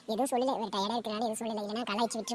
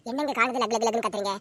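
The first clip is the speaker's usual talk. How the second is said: snapping back; 5 dB louder than usual. Acted. Wife quarrels with husband.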